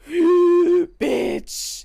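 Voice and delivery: sharp gasp then a loud high shout; gasping outburst. Real, not acted. Streamer blurting out at a character during the recap, loud and high. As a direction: blurt it out in shock.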